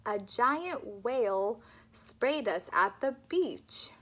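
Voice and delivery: "love life" with slow, clear L; slow, careful speech-therapy model; slow clear L drill. Shown as a demonstration. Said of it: "think about that tongue".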